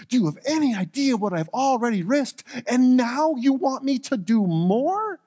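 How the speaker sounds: a frightened servant pushing back harder; rising stressed plea. Acted. Obadiah protests to Elijah, stressed and rising. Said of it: "You can hear or feel the stress in his voice".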